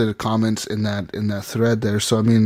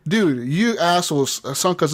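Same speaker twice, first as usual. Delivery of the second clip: mildly indignant, raised pitch; mock accusing tone; retold accusation; 4 semitones higher than usual. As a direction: replay the trash talk with mock outrage.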